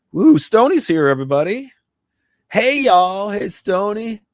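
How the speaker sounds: high, loud, happy shout-out; excited greeting. Real, not acted. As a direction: greet a friend who just arrived. Greeting a viewer on stream.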